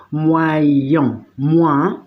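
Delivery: "moyen" drawn out, then its first half "moi" alone; sound-by-sound demo. Shown as a demonstration. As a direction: break "moyen" open to show "moi". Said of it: "para que este sonido salga". (pronunciación por partes de "moyen", aislando "moi")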